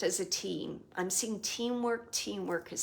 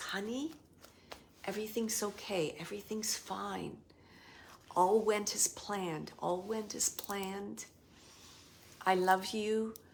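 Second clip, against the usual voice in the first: mock tender, soothing, gentle and loving voice. Recounting his reassuring words to the speaker, imitating a gentle, loving voice. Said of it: "saying the most gentle voice, like a loving voice".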